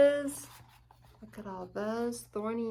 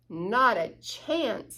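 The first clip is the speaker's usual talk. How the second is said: slow drawn-out scorn; lightly voiced smug fox; slow scoffing fox; much slower than usual. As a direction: stretch the dismissal smugly.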